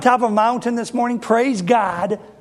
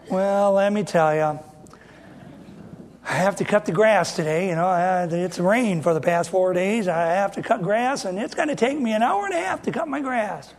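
complaining brother. Retold or imitated. Complaining church member tells his brother about his chores, a mild mock whine. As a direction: grumble through the chores like a put-upon churchgoer. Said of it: "All they do is complain".

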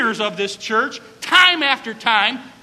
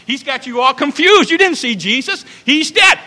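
mocking, rising to a higher loud shout; scoffing disciples; 4 semitones higher, 7 dB louder than usual. Disciples scoffing at Mary, building to a shout. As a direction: brush her off with scorn.

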